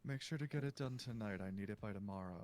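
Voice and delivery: low, quick, dismissive order; curt and cold. Acted. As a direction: brush him off fast and low. Gabriel orders Timmy curtly.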